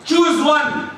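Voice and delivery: high-pitched, mildly pressing demand; children's demand. Retold or imitated. Kids pressing their father to pick, demanding. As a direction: imitate kids pushing for an answer.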